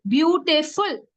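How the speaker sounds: "Beautiful" in three separate beats; syllable by syllable. Shown as a demonstration. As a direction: sound out "Beautiful" as beau-ti-ful. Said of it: "three syllables".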